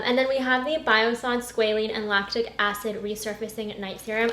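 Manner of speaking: ordinary talk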